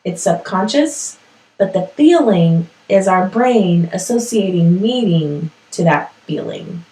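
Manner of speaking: careful explanation with long pauses; speaking slowly. Real, not acted. Host explaining emotion versus feeling to listeners, speaking slowly. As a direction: pause between phrases to get it clear. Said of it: "I'm speaking slowly".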